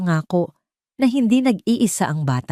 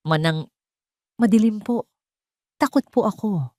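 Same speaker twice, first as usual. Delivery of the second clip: put-on high, small frightened child; a scared little boy behind a door, voiced a touch higher; lightly voiced scared child; small child's voice; 4 semitones higher than usual. A narrator's reading. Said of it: "isang maliit na boses ang sumagot".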